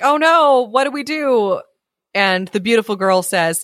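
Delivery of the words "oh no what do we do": mild, higher-pitched dismay; acted dismay. Storyteller voicing a stumped John, mock dismay. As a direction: voice John's mild panic. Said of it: "so John is like".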